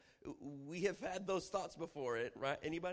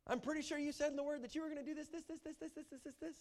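sassy reminder; 13 semitones higher, faster than usual. Acted. Preacher mocking a believer lecturing God. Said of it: "trying to remind God".

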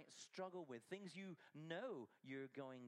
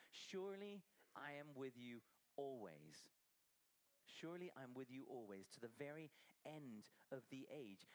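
sincere quote. Retold or imitated. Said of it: "He says".

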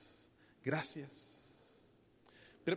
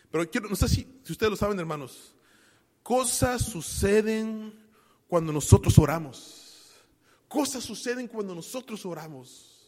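very loud, slow, drawn-out proclamation; full-force preaching; 4 semitones higher, 12 dB louder, slower than usual. Acted. Preacher booming to the church that prayer changes things. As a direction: hammer each word home. Preacher shouting key line.

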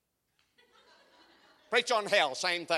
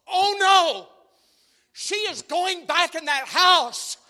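much higher, louder hammed-up panic; mock panic; 13 semitones higher, 13 dB louder, much slower than usual. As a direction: shriek at the screen in mock fright. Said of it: "this is me. I'm like this".

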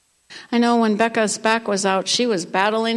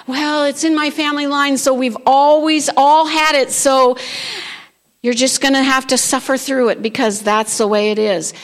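resigned complaint. Retold or imitated. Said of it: "That's how we talk, church".

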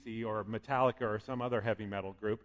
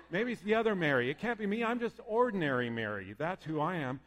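incredulous; 4 semitones higher, 4 dB louder than usual. Retold or imitated. Preacher repeats Mary's protest.

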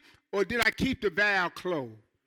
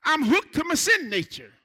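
Paul's lament; 5 semitones higher, 4 dB louder than usual. Retold or imitated. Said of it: "He said".

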